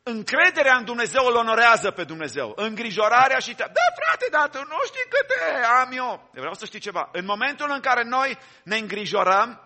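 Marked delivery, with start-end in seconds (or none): 3.7-6.3 high, slow, whining mock protest with a laugh; squeaky hammed-up whine, half laughing; whiny complainer. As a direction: play the self-pitying believer brushing off advice. Mocking a worried churchgoer's excuse.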